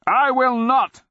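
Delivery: put-on high, loud frail old man's cry; defiant cry. A narrator's reading. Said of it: "the old wizard cried".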